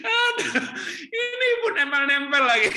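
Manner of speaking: high, loud, laughing mock complaint; laughing exclamation. (seru sambil tertawa keras)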